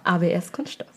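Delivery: reading while fighting laughter; barely holding back giggles; giggly reading. Real, not acted. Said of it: "Ihr wolltet es so".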